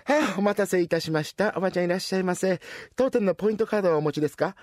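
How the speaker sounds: brisk, polite clerk greeting; cashier. Acted. Cashier greeting the old lady at the till, brisk and polite. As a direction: hurry through the point-card question.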